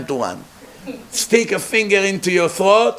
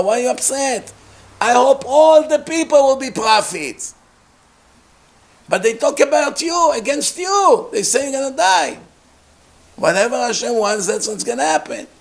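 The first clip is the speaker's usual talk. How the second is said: calm reply; 8 semitones higher than usual. Acted. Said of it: "What did Moshe say to Yoshua".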